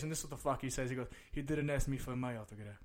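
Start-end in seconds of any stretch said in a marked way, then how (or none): 1.3-2.8 understated deadpan dad reply; straight-faced. Retold or imitated. Dad answering his hopeful kid, mildly deadpan. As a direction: state it as simple fact, no emotion. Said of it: "looks at me with a straight face".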